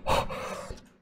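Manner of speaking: high, rushed pleading; tense excitement. Real, not acted. Player urging himself on near victory, high-pitched and excited. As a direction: beg the game to let you win. Nearly winning the game.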